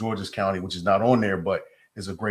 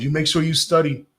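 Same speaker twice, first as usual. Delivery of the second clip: imitating an African lady's French accent, higher and louder; a fond higher, louder French-accented impression of his mentor; French-accented mentor praising him, pitched up and louder; 7 semitones higher, 5 dB louder than usual. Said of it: "She's an African lady with a French accent".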